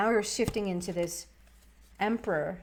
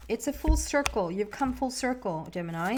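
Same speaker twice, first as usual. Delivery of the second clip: put-on British accent; 2 semitones higher than usual. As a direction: slip half-unwittingly into a light British accent. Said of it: "I don't know why I'm feeling British".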